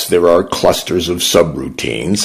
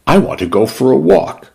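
put-on little girl voice; 7 semitones higher, faster than usual. A narrator's reading. Young girl asks.

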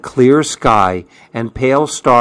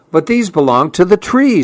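quick, raised little protest; small animal voice; 6 semitones higher, faster than usual. Acted. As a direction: plead fast like a worried hedgehog. Fletcher protests to porcupine.

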